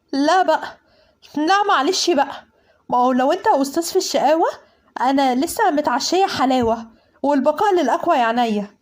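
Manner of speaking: sassy defiance. Acted. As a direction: stand up to the boss with attitude. Acted quarrel, defiant comeback. (تحدي بدلع وجرأة)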